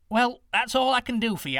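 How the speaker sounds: put-on high, loud old woman. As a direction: speak up as a kindly old woman. Old woman speaks to prince.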